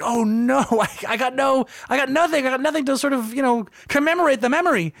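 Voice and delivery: high, hammed-up dismay; mock despair over missing photos; bummed-out whine. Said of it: "I got all bummed out".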